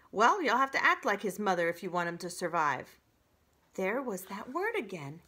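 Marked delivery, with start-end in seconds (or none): 0.1-3.0 fast, loud, firm advice; stern goose. Acted. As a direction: tell it plainly and firmly. Goose advising.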